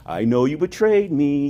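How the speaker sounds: slow, drawn-out mock accusation; mock mean. Preacher voicing a mean Christ to Peter, mock mean. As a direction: stretch it out like a needling taunt. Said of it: "Christ is just being mean".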